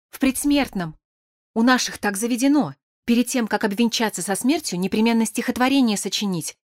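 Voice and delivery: lightly voiced shaken character explaining; Petya, timid and upset.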